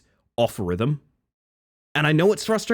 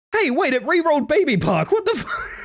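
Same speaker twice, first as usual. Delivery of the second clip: surprised laugh. Real, not acted. Game re-rolls track unexpectedly.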